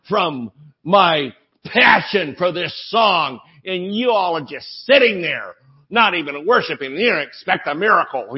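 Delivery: a hint of an offended song leader scolding, rising; mock the self-righteous worship leader; indignant song leader. Song leader scolding the congregation, mildly indignant. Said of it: "I heard this in a meeting".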